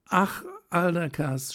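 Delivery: rapturous exclamation. A narrator's reading. Helene at the open window to Aldekas, rapturous high cry. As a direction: breathe in and cry out to the stars. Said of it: "atmete tief und rief".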